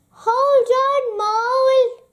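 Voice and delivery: high, loud urgent call; cry out. Acted. Badger calling up the Christmas tree to Mole, loud urgent cry. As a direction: shout up to him to hang on. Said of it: "he cried".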